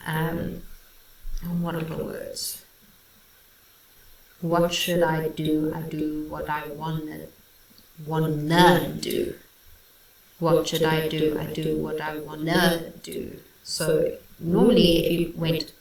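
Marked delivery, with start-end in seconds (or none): 4.4-9.3 WANNA stressed on its second syllable, "wan-NA"; slow rhythmic line, weight on the end of "wanna"; misplaced emphasis. Shown as a demonstration. Reviewer quoting the rap, emphasis on wrong syllable of wanna. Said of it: "putting the emphasis on the wrong syllable". 10.4-13.4 "wanna" said as "wan-NA"; misplaced emphasis. Shown as a demonstration. Reviewer repeating the rap line, wan-NA stressed late. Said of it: "putting the emphasis on the wrong syllable".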